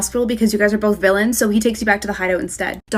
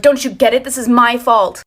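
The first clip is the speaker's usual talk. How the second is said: mildly raised, angry retold outburst; angry yell; 3 semitones higher, 6 dB louder than usual. Villain lashes out at partner comforting him, mock angry yell. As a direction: retell his yelling with a louder, agitated push. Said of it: "he starts yelling at you".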